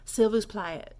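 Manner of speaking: "s'il vous plaît" run smoothly together; rolling off the tongue. Shown as a demonstration. Teacher letting it roll off, flowing demo. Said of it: "like, roll off the tongue".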